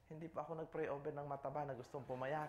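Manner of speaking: chuckling through the punchline; laughing. Real, not acted. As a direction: let the laugh leak into the joke. Jokes to the woman.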